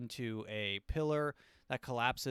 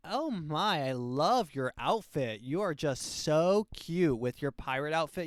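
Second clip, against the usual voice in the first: flamboyant man; 3 semitones higher, 4 dB louder than usual. Retold or imitated. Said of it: "very flamboyantly gay".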